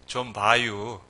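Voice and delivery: low Chungcheong accent with drawn-out ending; Chungcheong dialect. Shown as a demonstration. Preacher shows short Chungcheong "excuse me", low Chungcheong accent. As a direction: imitate a laid-back Chungcheong local. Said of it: "충청도".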